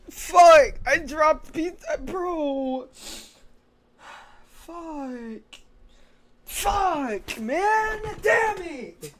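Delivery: loud, high, exasperated swearing; frustrated cursing. Real, not acted. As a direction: curse out the loss. Still reeling from dropped pizza.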